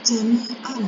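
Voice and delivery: JAMI'AN ending in a short "an"; written form with tanwin. Shown as a demonstration. Teacher showing how the word is written, final n sounded. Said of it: "ini dia tidak dibaca jami'an".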